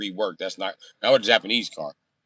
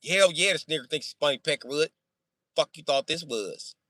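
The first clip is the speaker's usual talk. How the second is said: acted indignation; 7 semitones higher than usual. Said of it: "He was mad".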